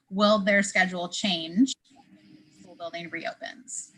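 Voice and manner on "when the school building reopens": choppy line cutting in and out; words dropping out on a glitchy call; buffering stutter. Real, not acted. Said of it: "you cut out for a second there".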